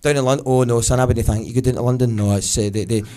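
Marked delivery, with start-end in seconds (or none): 0.5-2.2 a hint of a louder Glasgow mum refusing; lightly voiced old Glasgow woman, loud and scornful; Glaswegian mum. Glaswegian family turning down a luxury house, mock mum.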